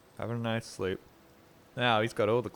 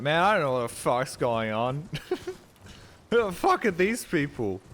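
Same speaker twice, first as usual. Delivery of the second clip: confused gamer; 4 semitones higher, 5 dB louder than usual. Pretend. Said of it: "and be like".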